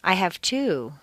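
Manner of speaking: two stressed with a falling tune. Shown as a demonstration. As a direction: answer with the number two. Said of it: "How many kids do you have?".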